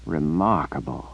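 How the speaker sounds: lazy, unimpressed drawl. Acted. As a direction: drag the word out lazily. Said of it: "Nicholas drawled".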